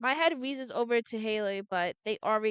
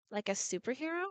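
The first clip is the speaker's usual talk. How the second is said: monotone; 6 dB quieter, faster than usual. Acted. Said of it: "Harley was more movet-, monotone than ever".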